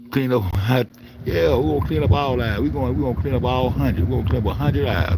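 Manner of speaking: loud, pumped-up chanting about cleaning up; rally the viewers loudly; hyped shout. Real, not acted. Hyping his cleanup videos to viewers, loud and pumped.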